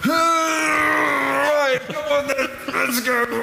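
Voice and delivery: high, loud and eager; rally the sheep home with gusto; cheery shepherd. Acted. Shepherd carrying the sheep home, loud and eager.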